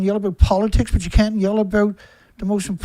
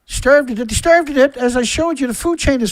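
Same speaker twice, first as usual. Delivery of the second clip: louder, higher, "starved" punched; furious shout; 4 semitones higher, 5 dB louder than usual. Real, not acted. Telling viewers the species starved, real loud shout. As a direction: yell it out in outrage.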